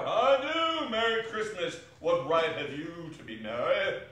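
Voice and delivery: loud, high, scornful retort; irate old miser's rebuke; indignant. Acted. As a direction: fire back in outrage. Scrooge argues with his nephew.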